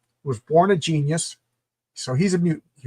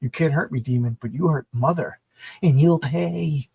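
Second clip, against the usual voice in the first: put-on spoiled brat kid. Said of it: "this spoiled brat kid is just like".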